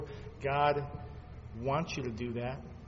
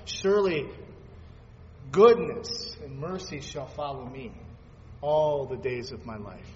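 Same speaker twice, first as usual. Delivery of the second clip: proclaimed verse; 5 dB louder than usual. Acted.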